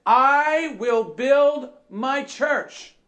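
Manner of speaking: I and BUILD drawn out slow and forceful; slow, weighty stress on "I will build"; emphatic proclamation. Acted. Preacher quoting Jesus on the church, slow emphatic "I will build". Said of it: "Jesus says".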